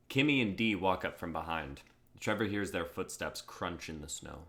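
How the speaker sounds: steady stage-direction read; script narration. A narrator's reading. Narrator sets the park scene, steady read. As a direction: set the scene for the actors.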